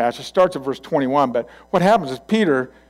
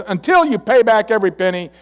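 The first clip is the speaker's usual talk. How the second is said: loud, raised, acted sentence; harsh threat; 8 semitones higher, 7 dB louder than usual. Servant throwing the man into debtor's prison, harsh. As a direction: lay down the punishment forcefully.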